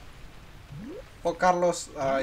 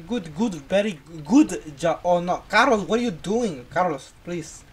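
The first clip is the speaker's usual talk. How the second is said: louder, slow boss voice scolding; bossy employer; 2 semitones higher, 6 dB louder than usual. Acted. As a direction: play the boss telling Carlos off. Boss scolds worker Carlos.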